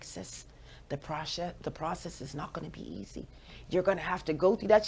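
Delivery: little voice. Retold or imitated. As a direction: mimic a friend's small, gentle voice. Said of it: "her little voice".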